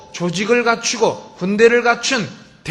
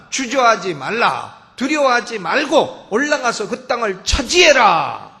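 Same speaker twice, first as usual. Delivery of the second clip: declaimed scripture. Acted. Preacher voicing God's command to Israel to take the land, declaimed.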